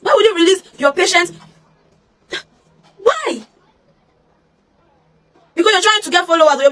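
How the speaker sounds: high angry outburst; outraged shout. Real, not acted. Confronting the nurse who leaked her statement, outraged shouting. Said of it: "outraged at nurse".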